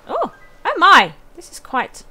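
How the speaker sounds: loud, high, fretful villager voice; fussy old cat lady. Acted. Gamer voicing a distraught neighbour about her runaway cats, fussy and loud.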